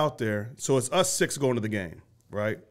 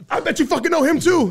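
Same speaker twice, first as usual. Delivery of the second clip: mock exasperated rant; 14 semitones higher, 5 dB louder than usual. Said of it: "in this rant".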